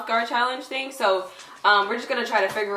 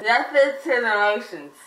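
garbled through a mouthguard; wearing a mouthguard. Real, not acted. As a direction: speak with a mouthguard in. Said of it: "it's hard to understand".

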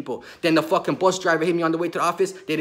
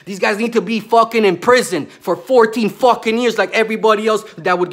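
angry yell; 4 semitones higher, 5 dB louder than usual. Real, not acted. Ranting about corrupt officials.

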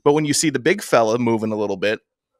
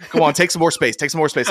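coach barking; 5 semitones higher, 4 dB louder than usual. Retold or imitated. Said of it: "then he's like".

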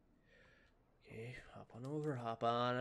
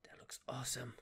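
whispering; 4 dB quieter than usual. Real, not acted. Quiet remark while playing.

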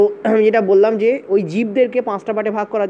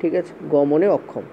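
dictating slowly; 2 semitones lower, much slower than usual. Shown as a demonstration. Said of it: "লিখে দেবো".

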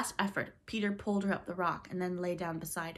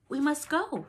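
higher, lifted and a bit louder; almost brightly; 8 semitones higher, 5 dB louder, slower than usual. A narrator's reading. Wendy to Peter on the rock, almost bright. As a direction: say it cheerfully, not grasping the danger. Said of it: "she said almost brightly".

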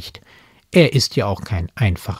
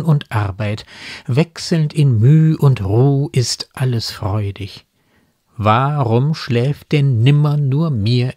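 measured, expressive poetry reading; poem recitation. Acted. Speaker recites an evening poem to listeners, measured recitation. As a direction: recite the verses with deliberate pauses.

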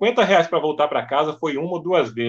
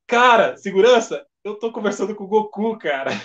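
higher-pitched, starstruck outburst; childlike excitement; 4 semitones higher than usual. Retold or imitated. Organizer tells the guard who is calling, giddy as a child. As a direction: retell it like an awestruck fan. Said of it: "baixou a criança naquele momento".

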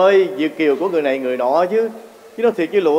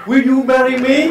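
slow, higher English proposal; proposal line; 5 semitones higher, 5 dB louder, slower than usual. Acted. Suitor proposing in English, slow and higher. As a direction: ask it slowly like a suitor. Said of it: "thì phải nói là".

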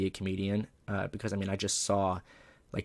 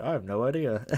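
laughing; 5 semitones higher than usual. Retold or imitated. Feigned innocence, then laughing.

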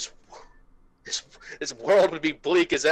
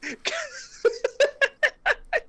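mock villain cackle; 4 dB louder than usual.

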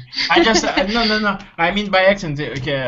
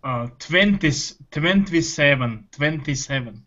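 "twenty-seven" in a Russian accent; 4 semitones lower, 3 dB quieter than usual. Shown as a demonstration. Student showing teacher how Russians say it, Russian accent. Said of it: "the Russian accent would be".

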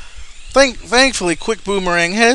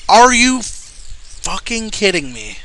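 slow disbelief; 3 semitones higher, slower than usual. Real, not acted. Frustrated gamer yelling at game.

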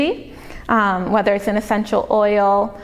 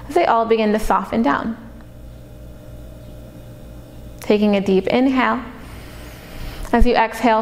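calm body-scan meditation voice with long pauses; unhurried, even-toned meditation guide, leaving space to breathe; guided meditation. Acted. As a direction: guide them into relaxation, pausing between phrases.

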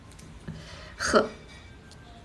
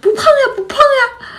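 very high, loud mimicked denial; little sister reassuring; 6 dB louder than usual. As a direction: imitate a sister chirping reassurance. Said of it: "我妹就在那说". (高音模仿妹妹连声否认)

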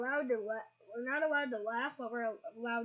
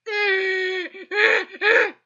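loud high yelp; pained cry; 9 semitones higher, 18 dB louder than usual. Real, not acted. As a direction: yelp in pain. Cry shout.

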